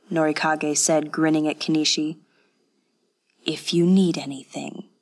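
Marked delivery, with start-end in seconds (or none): 3.4-4.9 hushed whispered mock of the girl's offer; teasing imitation. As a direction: tease him by whispering her line back. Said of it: "she said".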